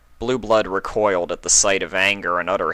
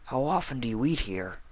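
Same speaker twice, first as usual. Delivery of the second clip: much softer, hushed question; barely above a whisper; 5 semitones higher, 7 dB quieter than usual. A narrator's reading. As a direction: leans in so no one hears. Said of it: "barely above a whisper".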